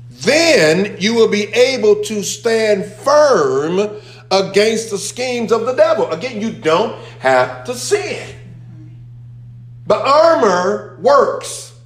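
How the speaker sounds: high, slow, full-voiced preaching. Real, not acted. Preacher urging the congregation to stand firm, fervent. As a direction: lift it and hold each word.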